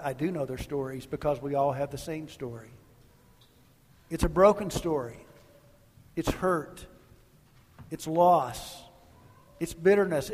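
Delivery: earnest, measured prayer voice; a lightly voiced pastoral prayer; closing prayer. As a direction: pray over the congregation unhurried.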